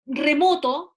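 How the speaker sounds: Remoto with a strong MO; Remoto, voice loaded on second syllable; stress on middle syllable. Shown as a demonstration. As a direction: punch the MO in Remoto. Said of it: "en esta sílaba".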